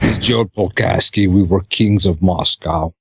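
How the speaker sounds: put-on Russian accent. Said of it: "Try it with a Russian accent".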